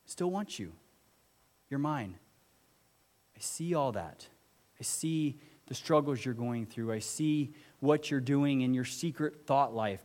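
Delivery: tender voice of Jesus. Acted. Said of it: "Jesus sees the ugly parts of you and says".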